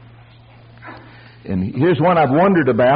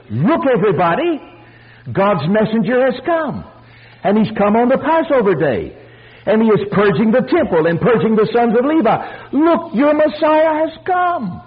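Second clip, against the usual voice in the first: high, ringing preacher's announcement; heralding proclamation; 7 semitones higher than usual. Retold or imitated. Preacher voicing what Jesus' deeds announced, high proclamation. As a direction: proclaim it to all, pitched high throughout. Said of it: "what he was saying".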